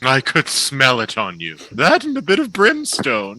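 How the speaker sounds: Mallow's voice. Acted.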